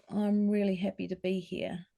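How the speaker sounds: nervous, small voice at odds with happy words. Shown as a demonstration. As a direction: shrink into yourself as you say it. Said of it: "closed and sort of nervous and small".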